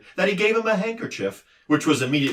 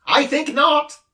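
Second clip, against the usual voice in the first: high, louder sobbing creature; squeaky-high noisy little being; din creature voice; 5 dB louder than usual. A narrator's reading. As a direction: din puzzled why Milo dislikes noise. Din's voice.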